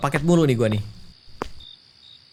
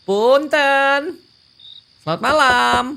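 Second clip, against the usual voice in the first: a bit higher, reading courier and customer lines; lightly voiced game dialogue; 6 semitones higher, 4 dB louder than usual. Courier and customer sort out a wrong address, lightly acted. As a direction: play out the doorstep mix-up lightly in character.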